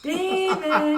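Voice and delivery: loud frantic call, laughing; yelling across the room. Retold or imitated. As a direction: shout his name through the house. Frantic search for child.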